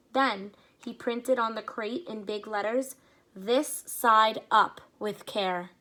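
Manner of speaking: lively read-aloud storytelling; story narration. A narrator's reading. Reading a story aloud to children, lively. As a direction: read it to the kids, paint each scene.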